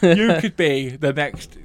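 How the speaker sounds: slow, drawn-out mock judge verdict; lightly put-on judge voice; Louis Walsh. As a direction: spin out the praise like a TV talent judge. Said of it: "I can do just a Louis Walsh".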